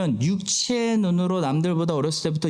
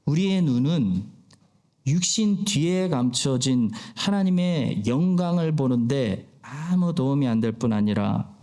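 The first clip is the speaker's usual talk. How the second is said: lightly imitated senior preacher's voice; a measured pulpit impression, sinking lower at the close; Pastor Ok Han-heum; 3 semitones lower than usual. Preacher quotes a revered pastor's sermon to the congregation, lightly imitating his voice. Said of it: "목소리를 좀 따라해봤습니다".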